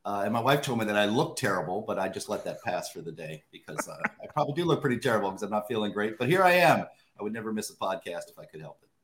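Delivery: hoarse, worn-out voice; hoarse from yelling. Real, not acted. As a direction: speak with a shot, sick voice. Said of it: "I'm told that my voice is kind of shot".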